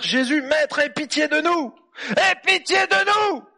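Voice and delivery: high, loud pleading cry, slowing at the end; desperate plea. Acted. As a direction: beg Jesus from a distance. Lepers crying out to Jesus.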